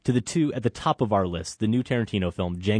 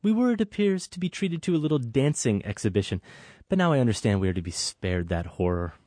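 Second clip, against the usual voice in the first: lofty, higher, disdainful reading; sniffing at the dancing, mildly acted; haughty host; 3 semitones higher than usual. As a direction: look down on her from a height. Acted film scene, haughty host.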